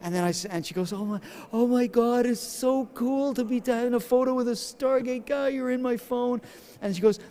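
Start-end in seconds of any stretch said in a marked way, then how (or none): 0.9-6.4 high, gushing mock fangirl voice; imitated starstruck fan. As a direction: imitate a fan thrilled by the photo. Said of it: "she's shaking".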